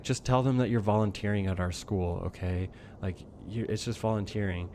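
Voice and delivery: low, soft imitation of a calm boss; calm coaxing. Boss telling employee what to tell police, imitated calm. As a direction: coax quietly in a calm boss's voice. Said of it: "like, a very calm voice".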